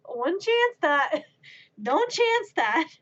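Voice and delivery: insistent warning, punching "chance"; emphatic warning. Acted. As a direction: warn with mounting insistence on "chance". Escalating warning to doubting friend.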